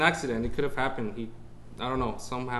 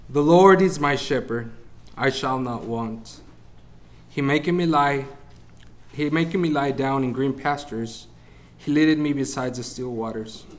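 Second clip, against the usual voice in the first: scripture reading; 4 dB louder than usual. Acted. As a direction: proclaim the verse louder, solemn and measured. Reads the psalm aloud.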